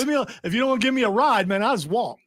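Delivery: high-pitched, put-on grumbling protest; indignant protest. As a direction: brush off the stranger, pitched high and huffy. Same acted driver continues.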